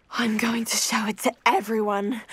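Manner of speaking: excited whisper. Acted. Excited about the gift.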